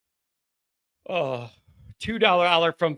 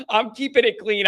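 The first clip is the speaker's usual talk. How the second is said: laughing; 4 semitones higher than usual. Real, not acted. Laughing after a cheeky superchat.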